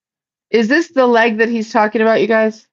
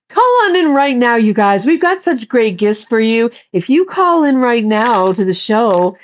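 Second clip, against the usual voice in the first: upbeat pledge-drive pitch, pushing viewers to call in; hammed-up public TV host urging donations; PBS fundraiser host. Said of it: "P B S fundraiser person".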